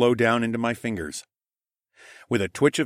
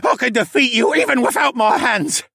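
taunting; 7 dB louder than usual. Acted. Sneering mage taunts the narrator.

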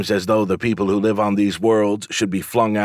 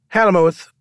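bored; 10 semitones higher, 5 dB louder than usual. A narrator's reading. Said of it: "said the pretty man in a bored voice".

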